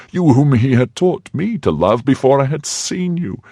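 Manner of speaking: high, gushing delight; feigned excitement. A narrator's reading. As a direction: gush over her. Milady's feigned rapture.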